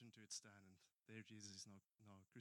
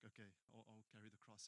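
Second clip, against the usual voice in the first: reluctant giving in; 2 semitones lower, 7 dB quieter than usual. Retold or imitated. Threatened dad reluctantly gives in.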